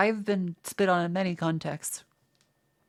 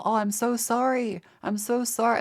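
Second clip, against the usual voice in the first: slow, higher, overly sorry fake apology; mock apology; 4 semitones higher than usual. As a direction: pretend to be sorry after whacking a rude customer, fake sorry. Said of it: "Go for the whole".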